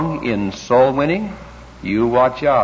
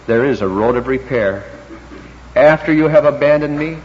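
calm, gracious. Retold or imitated. Jesus to disciples who will desert him, calm and gracious. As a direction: calmly offer a way back, slowing at the close. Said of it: "he calmly, graciously goes on to say".

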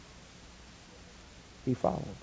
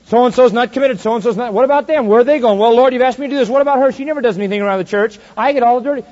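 complaining; 6 semitones higher, 5 dB louder than usual. Retold or imitated. Whiny complaining believer voiced.

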